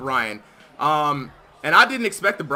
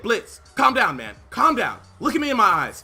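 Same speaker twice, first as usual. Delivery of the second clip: coach pep talk; 3 semitones higher, 4 dB louder than usual. Retold or imitated. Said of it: "I said".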